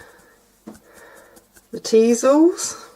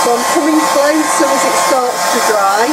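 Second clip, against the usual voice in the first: raised voice over a noisy hairdryer; over hair dryer. Real, not acted. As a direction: speak up over the blowing dryer. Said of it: "Live means you get to hear all of this".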